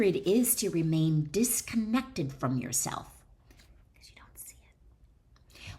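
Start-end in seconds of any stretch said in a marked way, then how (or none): 4.0-5.7 slow breathy whisper, like a secret; hushed, slow confiding whisper; whispered aside. Acted. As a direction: drop to a whisper for the point.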